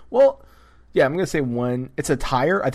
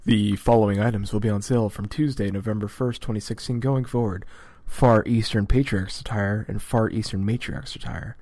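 smooth sales-pitch voice, a bit louder; salesman voice; 4 dB louder than usual. Shown as a demonstration. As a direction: read it like a TV sales announcer. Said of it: "I gotta put on my salesman voice".

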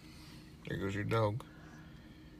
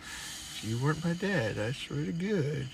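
mock threat; 4 semitones higher, slower than usual. Retold threat to dad.

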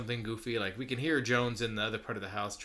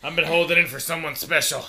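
mock romantic; 6 semitones higher, 10 dB louder than usual.

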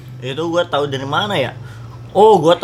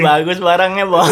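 stoned; 4 semitones higher, 4 dB louder than usual. Pretend. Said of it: "lagi nyimeng".

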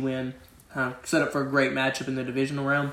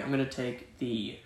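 talking while chewing a nut; words through a mouthful of pistachio; chewing noisily; 4 semitones lower, 13 dB quieter than usual. Real, not acted. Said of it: "Sorry, I'm eating a pistachio".

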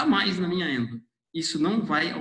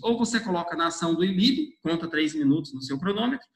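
rushing before cutoff; faster than usual. Real, not acted. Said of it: "Desculpa a pressa".

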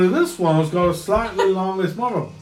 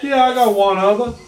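Texan drawl; 7 semitones higher, 4 dB louder than usual. Acted. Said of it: "I can't do a Texan drawl".

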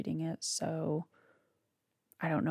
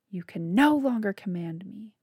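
a loud, raised outburst; screaming defiance; 2 semitones higher, 5 dB louder than usual. Acted. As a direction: hurl it at his father. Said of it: "Beau screamed".

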